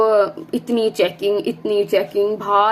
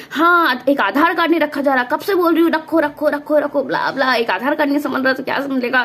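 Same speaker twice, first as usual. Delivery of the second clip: mildly raised, nagging mum voice; mock scolding mum; 3 semitones higher than usual. Daughter mimics mum scolding her over lost Aadhaar, mild mock yell. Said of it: "mummy ने थोड़ा बहुत चिल्लाया".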